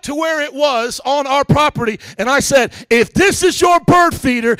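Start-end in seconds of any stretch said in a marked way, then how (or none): 2.9-4.5 high, punchy street-tough challenge; retold tough-guy callout; hood confrontation. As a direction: square up to the neighbor, hood style. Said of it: "I'm talking like this too, I am hood".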